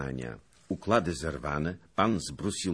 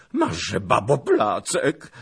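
plaintive cry; 6 semitones higher, 10 dB louder, slower than usual. A narrator's reading. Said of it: "zawołał żałośnie".

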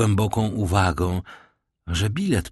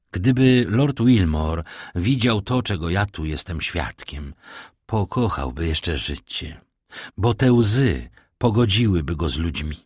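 grave. Acted. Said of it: "odparł poważnie Monte Cristo".

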